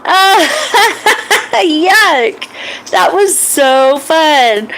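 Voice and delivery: high, giggling disgust; laughing yuck. Acted. Boy landing in the duck pond, laughing.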